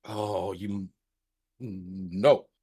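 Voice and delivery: talking with a mouth full of candy; words mumbled around sour candy; eating sour candy. Real, not acted. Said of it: "while still sucking on the sour one".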